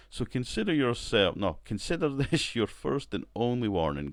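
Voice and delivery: poor executive impression. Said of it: "that was a poor accent I put on".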